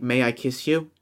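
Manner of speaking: softly murmured request, a little low; mock whisper. Rival leaning in to ask for a kiss, soft mock whisper. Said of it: "lean in and whisper in my ear".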